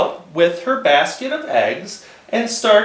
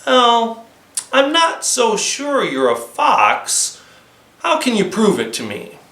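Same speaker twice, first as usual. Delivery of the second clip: lightly voiced doubtful girl; 5 semitones higher than usual. Flossie's voice.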